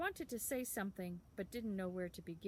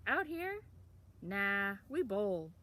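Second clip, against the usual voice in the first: put-on scoffing town boy; 5 dB louder, slower than usual. A narrator's reading. Town boy scoffing at gangs, loud and offhand. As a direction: brush the idea off.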